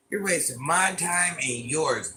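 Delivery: MY TIME drawn out slowly; slow, deliberate dismissal. Real, not acted. Streamer dismisses a rude chatter, slow and deliberate. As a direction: spell it out slowly, stretching "my time".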